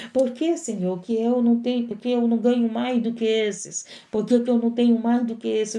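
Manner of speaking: mock a grumbler questioning God; whining to God. Preacher mimics the grumbler pleading with God, mock whine. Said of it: "O chamado é assim".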